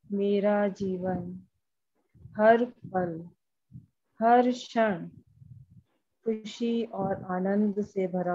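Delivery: measured meditation voice, phrase by phrase; guided affirmation. Acted. Leading a group through EFT tapping, measured guided affirmation. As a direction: recite affirmations with pauses for others to follow.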